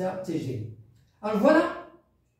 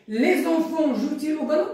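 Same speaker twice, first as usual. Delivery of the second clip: high question, rising on "ballon"; question intonation; 5 semitones higher than usual. Shown as a demonstration. Teacher models a question with subject inversion, question intonation. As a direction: ask it, lifting "ballon" at the end. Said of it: "avec l'inversion du sujet".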